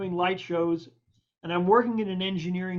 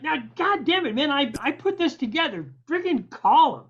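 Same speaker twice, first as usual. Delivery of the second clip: higher-pitched mock impatient urging; imitated exasperation; 6 semitones higher than usual. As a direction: push a reluctant friend, acting fed up. Engineer exasperatedly insists he call.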